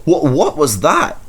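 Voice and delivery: a stammered, startled question; startled, stumbling over the words. A narrator's reading. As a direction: jump at the noise. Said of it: "he asked, startled".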